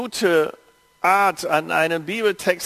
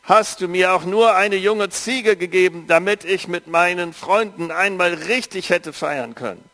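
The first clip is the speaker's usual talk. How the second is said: a touch of resentment, pushed out harder; elder son bitterly reproaching his father, mildly heated; 2 semitones higher than usual. Acted. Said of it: "entgegnete ihm bitter".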